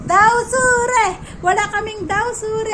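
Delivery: loud, high burst of excitement; excited shout. Real, not acted. A vlogger calling out the dish to viewers, excited shout. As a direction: cry it out like a big reveal. Exclaiming over the food.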